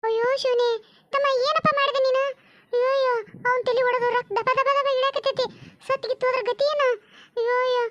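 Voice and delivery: panicked lament at the sight of blood; horrified wailing. Acted. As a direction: wail in shock at what he did. Woman sees the bleeding man. (ಗಾಬರಿಯಿಂದ ಗೋಳಾಡುವ ದನಿ)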